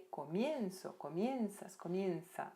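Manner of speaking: "comienzo, comienzas, comienza" stressed on IE; stress on the diphthong. Shown as a demonstration. Teacher shows where the diphthong falls, stressing IE in "comienzo, comienzas, comienza". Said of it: "a sílaba tônica sempre vai".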